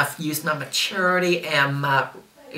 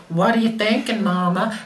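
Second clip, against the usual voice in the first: put-on higher-pitched questioning child; imitated child; 6 semitones higher than usual. Child's quoted question at dinner.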